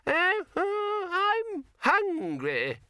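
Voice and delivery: put-on very high, slow, quavering old man's whine; cracked old man's high, slow complaint; complaining old man. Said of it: "complained Poons".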